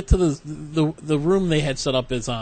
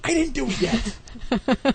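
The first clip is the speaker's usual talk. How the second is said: higher, slow sheepish whine; sheepish admission; 9 semitones higher, much slower than usual. Retold or imitated. Husband admitting to wife he hasn't knocked, sheepish. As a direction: confess he chickened out. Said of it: "I'm like".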